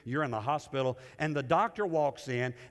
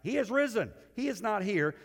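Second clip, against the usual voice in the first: proclaimed reading; 6 semitones higher than usual. Shown as a demonstration. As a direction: proclaim it as triumphant news. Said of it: "let me read it to you again".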